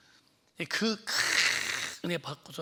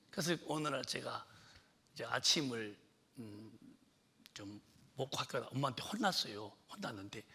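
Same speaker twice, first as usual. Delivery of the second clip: ordinary talk, nothing marked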